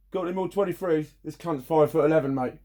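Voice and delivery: lorry driver calling out. Retold or imitated. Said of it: "And they go, Jim".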